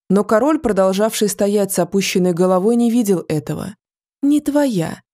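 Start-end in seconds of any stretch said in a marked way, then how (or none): 4.2-5.0 higher, snide repeat. A narrator's reading. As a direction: needle him with a sneer. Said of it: "с ехидцей повторило дерево".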